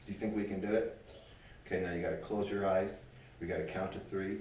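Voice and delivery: put-on quiet storytelling tone for a little girl; soft play voice. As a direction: draw a child into make-believe gently. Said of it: "pretend play with a little girl".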